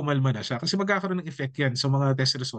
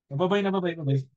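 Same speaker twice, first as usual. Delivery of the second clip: chuckling bye-bye to a crying little one; 2 semitones higher than usual. Real, not acted. Laughing goodbye to crying child. (natatawang paalam sa umiiyak na bata)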